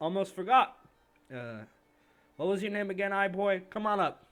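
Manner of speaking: huge bellow, very loud and very high, booming. A narrator voices a character calling a player up, in a booming voice. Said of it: "his voice is booming".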